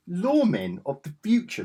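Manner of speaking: high laughing title read; amused mock announcement; laughing through it. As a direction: chuckle as you say the title. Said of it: "Don't know why I said it like that".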